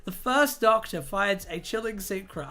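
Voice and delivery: a light, hammed-up posh read of a teaser. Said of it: "I'm not doing it posh anymore".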